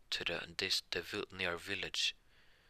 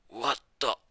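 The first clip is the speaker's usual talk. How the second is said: loud, higher-pitched disbelief; stunned outburst; 5 semitones higher, 7 dB louder than usual. Acted. Drunk spits blood after a punch, stunned outburst. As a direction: blurt it in acted shock.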